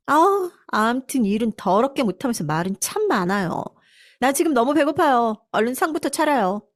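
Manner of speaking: lightly acted spoiled complaint, rising in pitch; grumble, then order the help around; contemptuous daughter-in-law. Hungry daughter-in-law ordering housekeeper to serve, in mildly peevish contempt.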